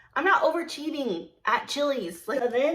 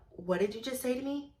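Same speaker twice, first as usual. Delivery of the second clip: soft, restrained question; contained challenge; 8 dB quieter than usual. Retold or imitated. Insulted server asks coworker to repeat it, quietly. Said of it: "very calmly".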